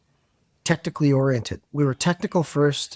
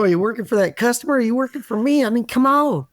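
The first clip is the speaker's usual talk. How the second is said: exasperated; 9 semitones higher, 3 dB louder, faster than usual. Retold or imitated. Voicing Oklahoma colleagues complaining.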